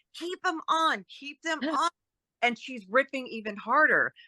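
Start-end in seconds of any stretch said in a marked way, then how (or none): 0.1-1.9 put-on whisper, higher pitch. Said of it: "And I'm whispering to".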